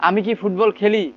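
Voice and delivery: lifted question on আমি কি football খেলি; questioning expression. Shown as a demonstration. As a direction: ask খেলি as a real question. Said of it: "এভাবে বলেন".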